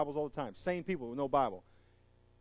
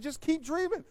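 voicing God; 7 semitones higher, 6 dB louder than usual. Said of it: "And God said".

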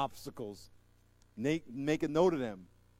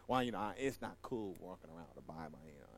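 mock cool churchgoer; 11 semitones lower, 12 dB quieter, faster than usual. Mocking cool churchgoer without Bible.

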